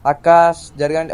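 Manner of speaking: loud calls to clear the road; shouting to move. Real, not acted. Driver shouting at women in the road to move, loud. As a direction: yell at them to step aside.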